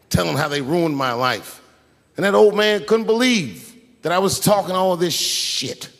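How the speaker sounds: ordinary talk, nothing marked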